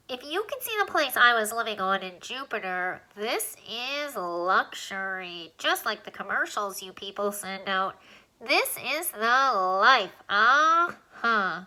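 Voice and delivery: a lightly squeaky little alien, pleased with the rooms; touring a new house, slow and content. Acted. Alien lists the rooms in Alan's nose, lightly squeaky and pleased.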